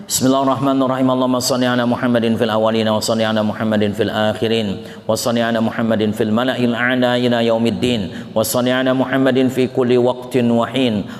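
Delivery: steady recited Arabic prayer; closing prayer. Acted. Preacher closing the session with prayer for listeners, steady recitation.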